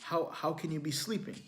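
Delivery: incredulous son. Retold or imitated. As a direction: make the disbelief climb. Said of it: "And I said".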